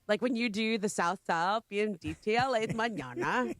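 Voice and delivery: light SoCal valley imitation; a touch of Valley Girl. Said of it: "my Valley Girl voice".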